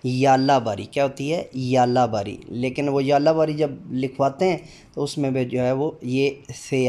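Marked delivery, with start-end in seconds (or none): 0.1-0.8 याला बारी with a clear य at the start, not स; correct pronunciation. Shown as a demonstration. Teacher modelling याला बारी against a common mistake. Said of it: "साला बारी भी उसको कुछ लोग पढ़ते हैं". 1.6-2.4 याला बारी with a clear य at the start, not स; correct pronunciation. Shown as a demonstration. Teacher modelling याला बारी against a common mistake. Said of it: "साला बारी भी उसको कुछ लोग पढ़ते हैं".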